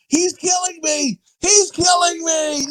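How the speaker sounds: high, drawn-out cry of a victim; mock movie yell. Friend mimicking a movie victim for cohosts, mock yell. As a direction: imitate a hammed-up dying yell. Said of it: "does he yell".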